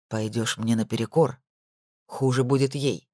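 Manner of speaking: low, cold threat; menacing Amin. A narrator's reading. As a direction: press each word of the threat. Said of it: "выговорил Амин".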